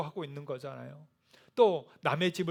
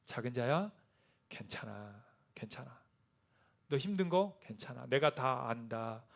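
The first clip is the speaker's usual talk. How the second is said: tender reassurance; 2 semitones lower, 4 dB quieter than usual. Acted. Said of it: "라고 주님은 말씀하시는".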